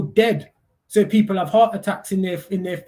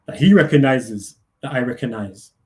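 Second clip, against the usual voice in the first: deep repeat; 6 semitones lower, 4 dB louder than usual. Shown as a demonstration. Repeats phrase in deeper voice.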